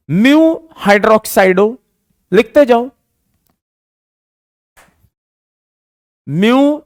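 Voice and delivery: very slow, word by word with long pauses; slow dictation. Shown as a demonstration. Teacher dictates the name for students to write, slowly. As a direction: spell it out so students can write along. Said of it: "मैं धीरे धीरे बोलूंगा".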